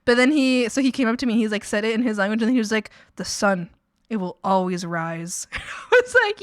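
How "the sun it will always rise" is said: broken-English coworker. Retold or imitated. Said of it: "pretty broken English".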